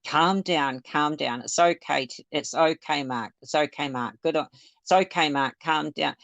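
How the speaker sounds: mock-soothe an upset man, gently; imitating calm soothing. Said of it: "be really calm with him".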